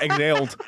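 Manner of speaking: "exhaled" as "eg-ZELD", h missing; mispronounced "exhaled". Retold or imitated. Reader mocking own slip on "exhaled", said "eg-zeld". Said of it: "That was a weird word".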